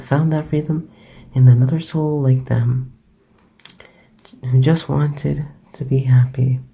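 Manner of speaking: hushed storyteller with firm phrase openings; bedtime story narration. Acted. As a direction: read a bedtime story close to the mic.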